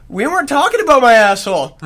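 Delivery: high, loud protest through laughter; laughing yell. Retold or imitated. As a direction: blurt it out while cracking up. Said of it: "And I'm like".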